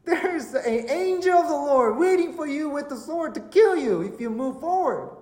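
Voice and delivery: high, slow talking-donkey voice; warning donkey. Acted. Donkey warns Balaam of the waiting angel, urgent. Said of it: "Donkey all of a sudden says".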